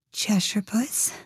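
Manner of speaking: slow, timid whisper. Acted. Alice timidly addressing the grinning cat, whispered. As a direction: barely dare to say the name. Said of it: "she began rather timidly".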